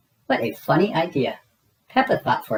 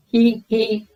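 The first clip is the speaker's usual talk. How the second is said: chuckle; 9 semitones higher, 5 dB louder than usual. A narrator's reading. Daddy Pig chuckles.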